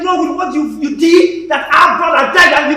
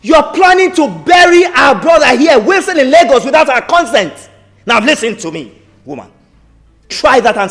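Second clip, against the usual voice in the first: angry confrontation; 2 semitones lower, 4 dB louder than usual. Acted. Uncle confronting widow.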